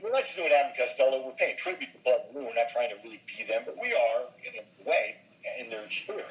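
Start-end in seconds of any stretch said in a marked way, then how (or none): none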